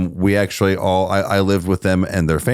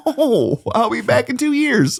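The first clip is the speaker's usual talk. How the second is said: sarcastic quip. Retold or imitated. Sarcastic reply in story.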